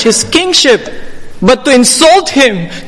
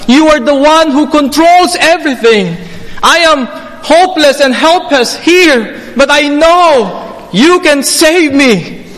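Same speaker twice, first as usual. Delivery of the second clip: higher, earnest plea to a king; a sermon's imagined confession, raised and pleading; voicing the thief's plea; 5 semitones higher than usual. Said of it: "What he is saying is that".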